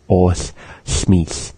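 os and smis said apart; separated. Shown as a demonstration. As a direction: break os from smis. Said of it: "and separating them".

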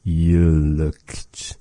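put-on lightly deepened old-man voice; a slight old-man depth on "Yalakt"; deep old-man voice. Shown as a demonstration. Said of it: "deep voice".

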